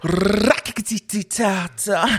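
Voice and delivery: slow rolling cat sounds; jungle cat noise. Pretend. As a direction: purr it out like a jungle kitty. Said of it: "I'm gonna give you an animal noise".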